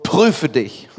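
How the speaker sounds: loud, emphatic warning, hammed-up; mock stern exhortation. Church admonishing the communicant to examine himself, mock stern. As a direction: boom it like a pretend stern admonisher. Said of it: "auch da noch ist unsere Betonung".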